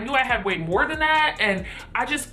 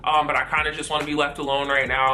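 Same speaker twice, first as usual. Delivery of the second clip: a much lower, withdrawn voice for the hurt roommate; 10 semitones lower than usual. Retold or imitated. Upset roommate voiced in story.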